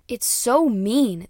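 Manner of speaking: drawn-out, loud, high so mean; emphatic. Real, not acted. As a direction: stretch so out in mock shock. Reacting to harsh lyric.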